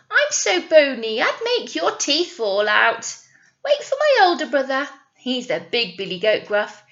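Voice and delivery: middle-sized goat tells the troll not to be silly. Acted. Middle goat voiced in story.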